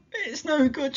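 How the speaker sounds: high, crying out in despair; a fallen mother near tears; tearful despair. A narrator's reading. Injured mother on the path, tearful and hopeless. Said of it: "she fell to the ground in tears".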